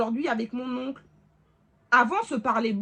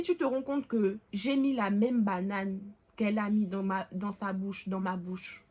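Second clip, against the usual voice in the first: sweetly; 3 semitones lower than usual. Retold or imitated. Daughter telling her mother gently and sweetly. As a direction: say it sweetly, like a child. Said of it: "de manière mignonne".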